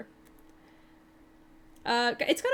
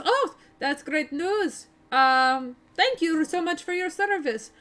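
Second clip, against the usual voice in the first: put-on Barovian accent. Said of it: "he kinda goes".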